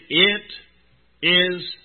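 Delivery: slow, loud, weighty proclamation; loud voice from heaven. Acted. Preacher voicing God's final decree, loud and slow. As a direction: let each word ring out from the throne.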